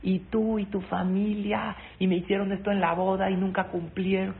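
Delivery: a mild mock rant at the son-in-law; retold yelling. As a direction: mimic an angry mother-in-law ranting. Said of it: "mi suegra me empezó a gritar".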